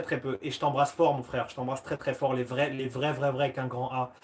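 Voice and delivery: low, soft, sincere declaration; hushed, earnest brotherly warmth; heartfelt affection. Real, not acted. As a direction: tell a close friend you love them, quietly.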